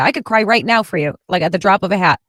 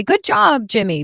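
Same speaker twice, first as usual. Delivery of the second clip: cheery praise; 4 semitones higher than usual. Retold or imitated. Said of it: "I wanna post something about this and say".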